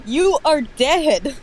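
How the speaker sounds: high, slow, drawn-out gloat; gloating villain. Acted. Reading the killer boxer's taunt, slow and gloating. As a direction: stretch it out like a cartoon villain. Reading opponent's line slowly.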